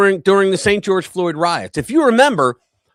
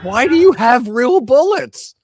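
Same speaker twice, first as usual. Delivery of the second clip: mock shout; 4 semitones higher, 5 dB louder than usual. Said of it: "So you get this".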